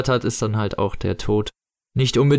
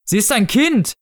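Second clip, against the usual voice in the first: higher, urgent exclamation; called-out protest; 9 semitones higher than usual. A narrator's reading. Shop manager objecting for the child, higher exclaimed protest. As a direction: cry out in protest. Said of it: "rief Kaufgut".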